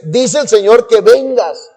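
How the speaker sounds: high, slow preacher's call; preacher summoning. Retold or imitated. Preacher summoning a reluctant young man, calling out. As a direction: draw it out high, calling someone forward. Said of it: "Di-, dice".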